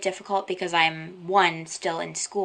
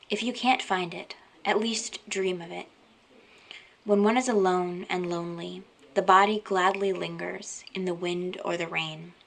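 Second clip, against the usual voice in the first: poem reading. Acted. Reading viewers a small part of a poem, measured poem reading. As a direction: read it line by line, leaving space after each phrase.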